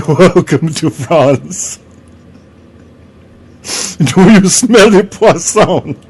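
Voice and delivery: big, slow comic French welcome; hammed-up French accent. Giant French vagina welcomes tourists to France, hammed-up French accent. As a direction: greet visitors in a silly, drawn-out French accent.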